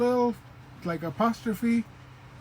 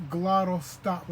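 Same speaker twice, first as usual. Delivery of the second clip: slow term; slower than usual. Shown as a demonstration. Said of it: "is called a".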